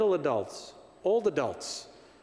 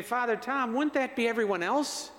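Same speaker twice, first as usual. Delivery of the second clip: imitating a parishioner; 6 semitones higher than usual. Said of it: "Now you might be saying".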